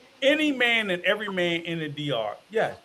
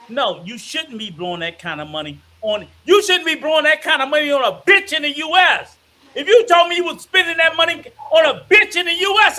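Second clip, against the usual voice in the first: building angry rant; 5 semitones higher, 4 dB louder, faster than usual. Real, not acted. Ranting about spending.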